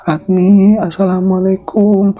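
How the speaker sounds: put-on old woman greeting at Ratmi's door, high and slow; Nyi Suti calling. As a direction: call politely at the door, drawn out. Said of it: "Uluk salam".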